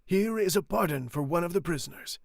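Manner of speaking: loud public announcement. Acted. The friar announcing the pardon loudly to the crowd. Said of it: "in a loud voice".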